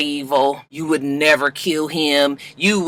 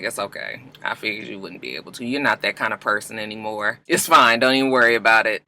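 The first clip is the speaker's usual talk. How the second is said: quiet reassurance; 7 semitones lower, 6 dB quieter than usual. Retold or imitated. Melly quietly forgives Liv.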